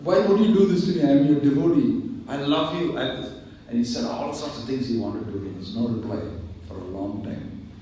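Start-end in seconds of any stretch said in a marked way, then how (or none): 0.0-3.0 crying to the Lord. Retold or imitated. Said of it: "started crying to the Lord".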